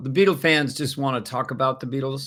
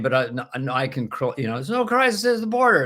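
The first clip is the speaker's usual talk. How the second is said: Biden impression. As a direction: stammer it out like a flustered Joe Biden, pitched way up. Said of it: "just Biden saying".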